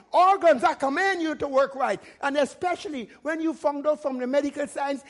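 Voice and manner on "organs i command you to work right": commanding. Shown as a demonstration. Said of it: "You command your body".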